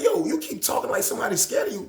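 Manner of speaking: high, loud taunt; mocking challenge. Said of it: "old head was like".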